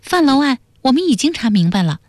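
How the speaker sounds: put-on high-pitched, quick, earnest young character; high voice, businesslike and direct; stern declaration. A narrator's reading. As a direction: state it firmly in a high, brisk voice. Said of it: "半儿正声说".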